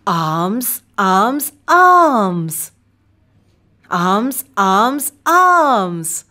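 put-on clear, bright teacher voice for children; kids show host. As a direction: lead the little ones in a chant. Kids show host drilling words.

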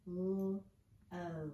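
"L-O" as two separate held sounds; phonics-style blending sounds in "L-O"; sounding out. Shown as a demonstration. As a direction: stretch each sound of "L-O". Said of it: "we're gonna sound out".

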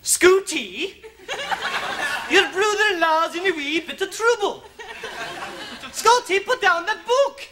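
put-on high, scolding Scottish accent; hammed-up Scottish accent, rousing a drunk. Accent teacher demonstrating on drunken Scooty, Scottish accent. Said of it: "while attempting the Scottish accent".

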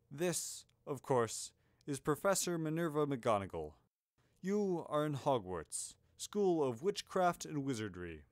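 lightly voiced grandfatherly headmaster; a hint of old wizard; Dumbledore. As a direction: make stately introductions, taking your time.

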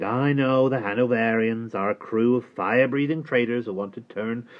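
a hint of a scoffing old man; lightly voiced old workman. A narrator's reading. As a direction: wave it off as an old craftsman. Mister Cobb dismisses the plot.

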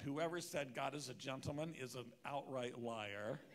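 laughing through a mock complaint; wry laughing note. Pastor joking about God being no gentleman, laughing. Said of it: "I did make a mental note".

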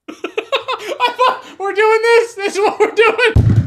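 high-pitched words through laughter; helpless laughter. Real, not acted. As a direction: laugh so hard the words barely get out. Cracking up at friend's bit.

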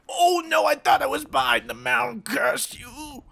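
loud, high panic; shocked at being hit; dismayed shout. Real, not acted. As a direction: cry out in disbelief. Getting shot.

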